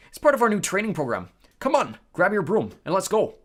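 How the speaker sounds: loud, hearty and keen; rally him with gusto. Acted. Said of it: "said Wood heartily".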